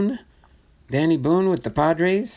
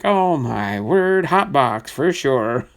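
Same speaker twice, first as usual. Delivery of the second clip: imitating excitement; slower than usual. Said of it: "Almost got excited there".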